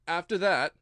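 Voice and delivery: a hint of a nervous hatter thinking; hesitant Hatter. A narrator's reading.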